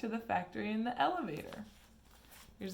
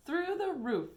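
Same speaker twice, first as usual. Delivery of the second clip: gleeful; 9 semitones higher, 4 dB louder than usual. A narrator's reading. Wonka gleeful.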